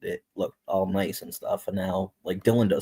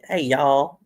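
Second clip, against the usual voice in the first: higher, louder mock Georgia drawl; Georgia accent; 7 semitones higher, 6 dB louder than usual. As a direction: imitate a Georgia girl's greeting accent. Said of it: "she actually sounds like".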